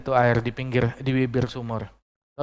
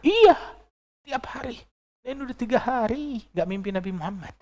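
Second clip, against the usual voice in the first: imitated weeping; 10 semitones higher than usual. Weeping mother telling the sheikh her loss, imitated crying. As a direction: wail the yes, then whimper the rest up high. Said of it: "Musibah, nangis".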